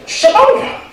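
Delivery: high, loud laughing call across the room; loud, laughing call of the name. Real, not acted. Host calling man to podium.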